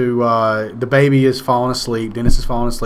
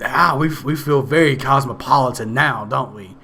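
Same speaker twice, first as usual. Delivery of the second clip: put-on smug old lady. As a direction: sound pleased with yourself like a snooty neighbor. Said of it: "the old lady who's happy".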